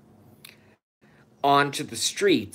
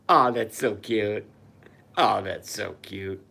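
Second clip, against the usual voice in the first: mock cooing; 2 semitones lower than usual.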